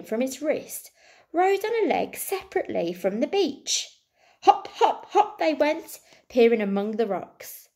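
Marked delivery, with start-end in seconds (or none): 4.4-6.0 playful laughing narration. A narrator's reading. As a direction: read with a bubbling laugh, pitch jumping up. Gleeful hopping in the story.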